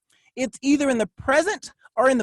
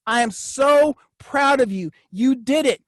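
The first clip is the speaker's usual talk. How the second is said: self-praise. Shown as a demonstration. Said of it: "I can say it to myself".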